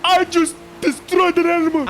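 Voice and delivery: high, loud exclamation; excited outburst. Real, not acted. Gamer blurting out that he just destroyed an animal, excited outburst. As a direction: cry it out at the top of your excitement. Shock exclamation after a crash.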